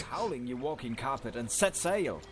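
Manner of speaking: gruff growly captain; Chewbacca voice. Acted. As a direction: growl it like a Wookiee. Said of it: "then he turns into Chewbacca".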